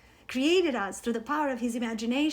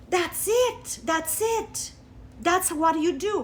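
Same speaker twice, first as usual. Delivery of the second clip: excited realization; 4 semitones higher than usual. Retold or imitated.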